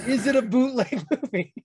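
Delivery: pointed retold question. Retelling a quibble over a bootleg to the guy, pointedly questioning. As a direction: press the question as a comic punchline.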